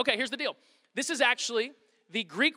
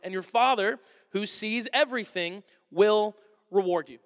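measured, earnest Bible reading; scripture reading; 2 semitones lower than usual. Acted. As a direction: read the passage as sacred text. Reads the scripture passage aloud.

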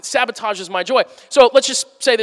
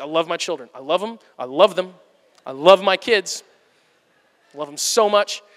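lower, flat and forced, through gritted teeth; strained parent; 3 semitones lower than usual. Acted. Father on hard days reminding himself he loves his kids, lower and strained. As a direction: force the love out. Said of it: "other days I'm like".

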